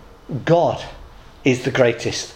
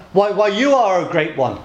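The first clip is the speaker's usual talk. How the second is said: terrified monkey; 2 semitones higher than usual. Acted. Monkey flattering the lion, mock terror. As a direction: play a frightened monkey placating a bully. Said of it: "This terrified monkey says".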